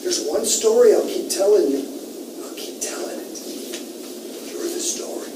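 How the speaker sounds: high-pitched surfer-dude douchebag read-aloud. Acted. Teacher performing the novel's ending for students, in a surfer-dude douchebag voice. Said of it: "in a kind of surfer dude, uh, douchebag, uh, voice".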